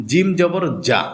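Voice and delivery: জিম জবর read as জা; right reading; correct ja. Shown as a demonstration. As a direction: say জা, not জিম. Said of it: "জিম না কিন্তু".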